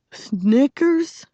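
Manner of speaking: high, rising query; incredulous question. A narrator's reading. Girl repeating the boy's new nickname, questioning. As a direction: toss the name back as a question.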